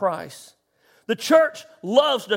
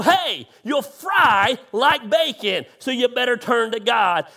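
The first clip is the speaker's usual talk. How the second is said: mock fear preacher. Pastor mocking churches that scare people, mild mock shout. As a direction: ham up a hellfire warning. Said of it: "We want to let them know".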